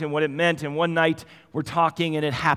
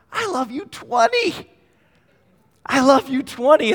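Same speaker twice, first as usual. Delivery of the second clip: a small daughter proudly announcing her love; excited toddler voice; 10 semitones higher, 7 dB louder than usual. Retold or imitated. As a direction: say it like a beaming toddler. Preacher voicing excited toddler daughter.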